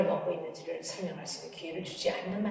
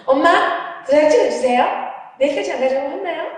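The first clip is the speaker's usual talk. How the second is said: put-on high, loud, rushed child's plea; pleading child; 5 semitones higher, 7 dB louder than usual. Daughter begging mom to stamp her report card, high loud plea. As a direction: beg like a kid who needs the stamp.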